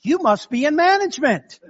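pitched well up, knowing; wry put-down. Retold or imitated. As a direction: deliver the punchline dryly. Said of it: "responded by simply saying".

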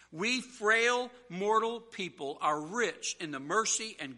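measured, weighty declarations to a congregation; emphatic preaching. Real, not acted. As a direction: proclaim it with punched key words.

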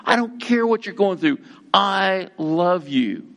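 high and tender, slowing on I love you; voice of the cross. Acted. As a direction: speak as the cross comforting a sinner. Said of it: "Cross says".

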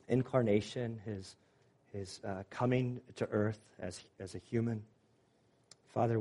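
measured, reverent prayer voice; closing prayer. Real, not acted. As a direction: pray aloud simply, pausing between phrases.

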